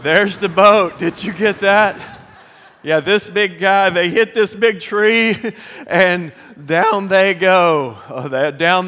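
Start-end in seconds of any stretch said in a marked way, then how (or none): 0.0-2.1 loud echo. Retold or imitated. Pastor repeats the clip's line loudly. 2.8-8.0 laughing loudly while drawing it out; laughing through the crash story. Real, not acted. Pastor laughing to the church about the sunk boat.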